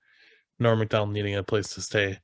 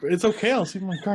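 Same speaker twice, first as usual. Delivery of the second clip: higher-pitched imitation; mock-meek, pitched-up brush-off; retold polite refusal; 7 semitones higher than usual. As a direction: lightly voice a guy backing out. Retold increasingly uneasy refusal.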